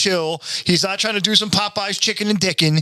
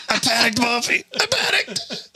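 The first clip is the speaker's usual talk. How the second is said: Carl voice; 6 semitones higher than usual. Retold or imitated. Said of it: "sounds like Carl from Aqua Teen".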